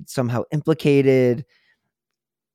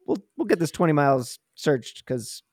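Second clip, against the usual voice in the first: brisk, upbeat mock officer, a bit louder and higher; cheery mock reassurance, lightly voiced; mock cheerful cop; 4 semitones higher, 4 dB louder, faster than usual. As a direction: play the overconfident searcher, quick and breezy. Mock police voice, eager.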